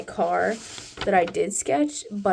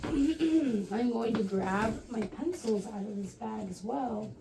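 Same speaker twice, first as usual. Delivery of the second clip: croaky sick voice; a worn-out, croaky voice; hoarse voice; 3 dB quieter, slower than usual. Real, not acted. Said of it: "As you can hear in my dying voice".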